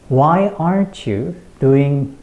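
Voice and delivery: slow, strong "Why aren't", then "doing"; sentence stress demo. Shown as a demonstration. Teacher repeats for learners, slowly stressing "Why", "aren't", "doing". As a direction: stretch and stress "Why aren't" and "doing", keep "you" light. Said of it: "이렇게 강조를 하셔야 됩니다".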